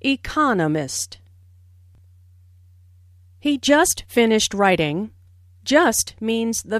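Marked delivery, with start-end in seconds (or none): 0.0-1.2 economist said as e-CON-o-mist; stress on second syllable. Shown as a demonstration. Teacher isolating the word economist, stress on CON. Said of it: "with the stress on the second syllable".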